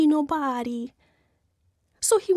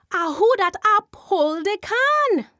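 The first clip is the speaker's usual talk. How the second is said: eerie Jumbie voice; 7 semitones higher, 4 dB louder than usual. Acted. Jumbie voice calls again.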